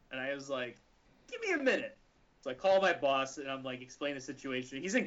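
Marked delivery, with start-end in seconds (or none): 1.3-2.0 panicked. Retold or imitated. Panicked clerk reply.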